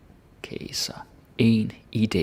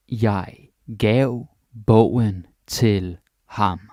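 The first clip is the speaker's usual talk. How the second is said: slow chunked repeat; 5 dB louder, much slower than usual. Shown as a demonstration. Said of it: "teacher repeats in slow chunks".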